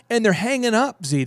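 ordinary delivery

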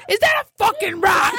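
high laughing mock shout; high shouted quote through laughter; laughing mock yell. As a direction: yell it while cracking up.

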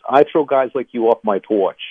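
put-on slow, drawn-out New Jersey accent; tough-guy line in a put-on Jersey accent; northern New Jersey accent. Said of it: "in a good northern New Jersey accent".

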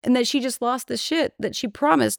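outraged storyteller venting; worked-up rant. Real, not acted. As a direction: pitch rises as she gets fired up.

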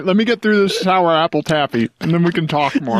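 chewing while talking; mouth full. Real, not acted. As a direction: talk through a mouthful of taffy. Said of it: "I'm gonna chew taffy into the microphone".

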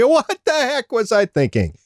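high, exasperated self-mockery; incredulous groan at an old mistake. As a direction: scold your past self in disbelief.

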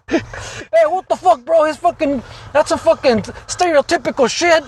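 mock offended. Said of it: "you would be all offended".

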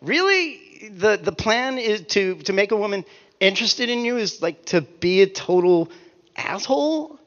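baffled at the plan; mock incredulity; incredulous. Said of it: "and you're like".

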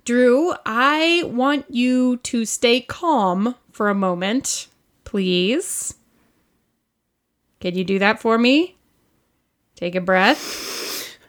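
slow, measured plea for calm; patient, careful reassurance, pausing between phrases. Acted. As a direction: talk him down gently and deliberately. Soothing an alarmed partner.

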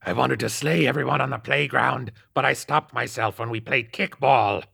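slightly demonic. A narrator's reading. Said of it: "his voice becoming slightly demonic".

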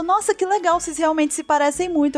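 high-pitched mock admiration; impressed friend. Gullible friend admiring the likeness, impressed. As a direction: imitate a friend who believes it.

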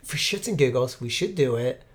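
hushed, low voice; whispering. Real, not acted. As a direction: keep it secret, almost whispered. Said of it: "Why are we whispering?".

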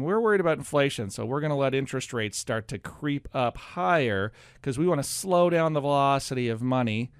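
slightly nasal central banker voice; a hint of a nasal Fed official. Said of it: "the Fed voice is slightly, like, nasal".

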